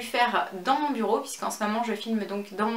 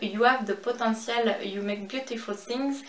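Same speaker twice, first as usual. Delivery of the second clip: anglais lu avec un accent français; real French accent in English; accent français déplorable. Real, not acted. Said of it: "excusez-moi pour mon accent déplorable". (accent français en anglais)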